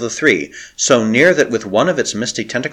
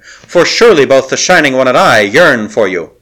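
a touch of mockery, a little louder; mild jeer; 3 semitones higher, 5 dB louder than usual. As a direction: sneer lightly at their fate. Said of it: "she jeered".

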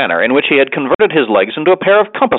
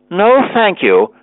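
hurried refusal; 7 semitones higher, much slower than usual. Acted. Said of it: "replied Mister Winkle hurriedly".

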